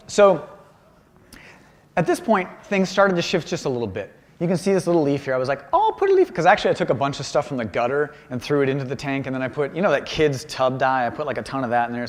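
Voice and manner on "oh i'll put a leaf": very high, casual oh; tossed-off flash of inspiration; pitched-up carefree thought; breezy idea. Retold or imitated.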